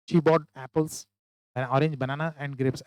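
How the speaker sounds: rushed list without breaks; wrong way, no comma pauses; run together. Shown as a demonstration. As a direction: say the list in one go. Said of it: "ऐसा ना पढ़े".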